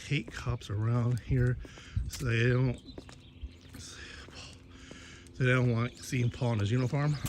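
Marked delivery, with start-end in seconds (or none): 3.8-7.2 slow hushed whisper, as if sharing a secret. Real, not acted. Secretive remark about hating cops.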